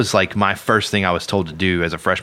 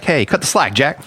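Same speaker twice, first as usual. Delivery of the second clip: mock jive-talking pimp; lightly hammed-up pimp line, higher; a hint of a seventies pimp; 7 semitones higher, slower than usual. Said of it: "were you walking around be like".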